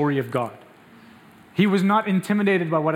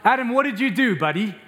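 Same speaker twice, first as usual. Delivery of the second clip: mock scolding God; 4 semitones higher than usual. Shown as a demonstration. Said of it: "No, God came and he said".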